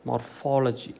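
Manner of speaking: മോർഫോളജി with weight on FOL; stress on FOL. Shown as a demonstration. Teacher repeating before the contrast, FOL stressed in മോർഫോളജി. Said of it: "കറക്റ്റാണ്".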